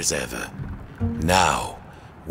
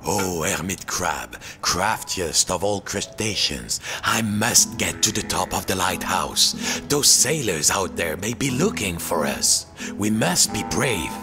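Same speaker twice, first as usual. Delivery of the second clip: earnest plea. Acted. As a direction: coax the crab gently. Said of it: "took a deep breath".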